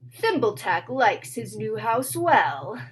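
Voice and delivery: slow, odd little-man voice; sing-song rhyming sprite; lightly voiced tiny brownie. Brownie speaks in rhyme.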